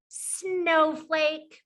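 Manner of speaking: slow, stretched "snowflake"; drawn-out word. Shown as a demonstration. Teacher reveals the picture to pupils, drawn out. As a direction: linger on the start of "snowflake".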